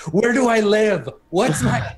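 put-on high-pitched yelling in a weird Spacek accent. Game master imitating the player's outburst, weird Spacek accent. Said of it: "a weird Spacek accent".

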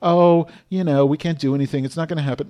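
half-acted defeatism; mock resignation. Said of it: "like the Jews in Nazi Germany".

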